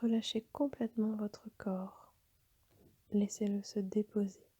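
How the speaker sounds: calm yoga nidra guidance with long pauses; guided meditation. Acted. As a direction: guide them toward rest, phrase by phrase, leaving long silences. Leads a yoga nidra session. (méditation guidée, posée, avec de longues pauses)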